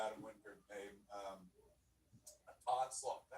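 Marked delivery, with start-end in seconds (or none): 2.7-3.3 slow, hazy stoner drawl on Onslaught. Shown as a demonstration. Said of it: "The stoner voice".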